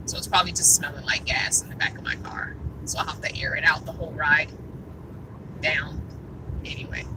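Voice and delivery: hushed, low mutter; muttered aside. Real, not acted. Driver muttering to herself about the gas smell, hushed. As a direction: mutter it to yourself.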